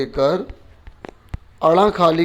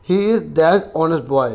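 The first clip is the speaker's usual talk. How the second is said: dictation read; much slower than usual. Shown as a demonstration. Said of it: "teacher reads exercise sentence".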